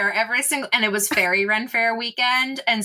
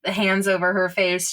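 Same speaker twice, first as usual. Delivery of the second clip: muffled through hands; 3 semitones lower than usual. Shown as a demonstration. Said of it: "so it kinda sounds like this".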